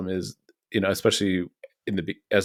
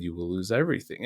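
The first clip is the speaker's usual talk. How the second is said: slightly dropped, softer serious tone; imitated grave hush; 6 dB quieter, faster than usual. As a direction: imitate his solemn near-whisper, softly. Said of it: "gets into a little bit of a whisper".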